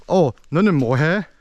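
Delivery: quick, neat Seoul-standard Korean. Shown as a demonstration. Teacher demonstrating standard Seoul Korean to the class. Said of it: "proper Seoul city Korean would be".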